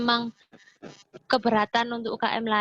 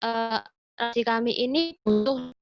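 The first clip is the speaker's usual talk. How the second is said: choppy, breaking-up call audio; glitching robot. Real, not acted. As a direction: voice cutting in and out. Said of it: "koneksinya terputus-putus ya".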